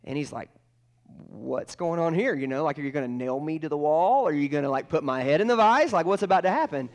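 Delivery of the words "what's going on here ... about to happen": mock alarm. Boy fearing punishment in garage.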